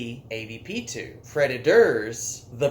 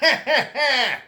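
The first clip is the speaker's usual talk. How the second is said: mustache twirling villain laugh; 9 semitones higher than usual. Retold or imitated. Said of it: "it sounded like an evil mustache twirling laugh".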